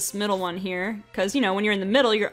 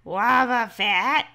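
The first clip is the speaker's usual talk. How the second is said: alarmed character voice; 4 semitones higher, slower than usual. Acted. Why Not character alarmed.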